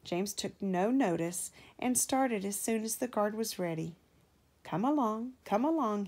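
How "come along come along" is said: puffing. A narrator's reading. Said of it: "he puffed".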